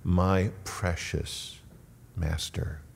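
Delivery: quiet, loving reverence; endearing. Shown as a demonstration. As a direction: savour each title softly and slowly. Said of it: "it's an endearing term".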